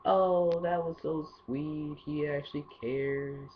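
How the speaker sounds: slow, high, gushing mock girl voice; drawn-out mock swoon over a sweet text. Girl gushing over a good-morning text, slow high swoon. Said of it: "girls are like".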